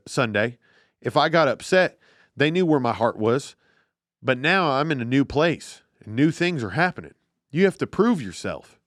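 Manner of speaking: lightly put-on Derek Carr voice, mocking him; a hint of Derek Carr, poking fun; mock Derek Carr accent. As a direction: read it as a gentle send-up of Derek Carr. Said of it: "in a Derek Carr accent".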